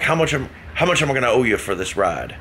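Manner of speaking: light imitation of a thirties Irish accent; a hint of old-school Irish, asking the fare. Passenger asking the driver about the fare, in a mild Irish accent. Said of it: "all of this was in that accent".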